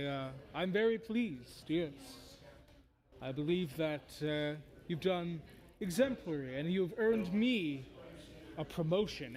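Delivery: lightly voiced devil, drawing out the words; a hint of a theatrical fiend; pleased bone devil. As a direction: gloat with slow, mannered satisfaction. Game master voices bone devil.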